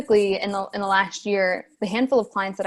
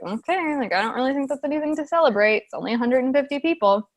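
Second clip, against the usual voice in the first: mock dismissive; 4 semitones higher than usual. Other coaches sneering at celebration.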